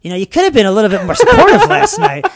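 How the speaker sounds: high, loud, fast retold grievance; laughing mock complaint. Comedian retelling his complaint to his girlfriend, laughing indignation. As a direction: protest indignantly through a laugh.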